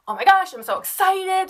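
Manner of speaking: put-on high, loud, squealing kid voice; imitating a thrilled child; excited kid. Teacher imitating her students thrilled about candy, high excited squeal. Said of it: "So the kids were like".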